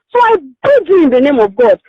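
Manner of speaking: begging with a catch of tears in the voice; a real, tearful appeal to the host; tearful plea. Real, not acted. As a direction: plead as if close to crying.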